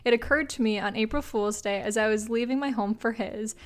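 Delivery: measured, even read-aloud voice; story narration. A narrator's reading. Host reading a listener's prank story to co-host, measured narration. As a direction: read it out like a short anecdote.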